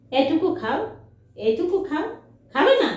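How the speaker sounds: high sing-song coaxing; coaxing the dog. Real, not acted. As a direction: plead with the dog to take a bite.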